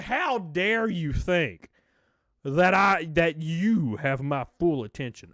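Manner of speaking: slow, drawn-out mock indignation; mock offended. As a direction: play the haughty diva, dragging each word. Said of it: "I, like, laughed because I was like".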